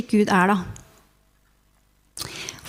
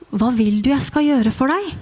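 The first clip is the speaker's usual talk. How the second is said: mild voice. Acted. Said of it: "en mild stemme som sier".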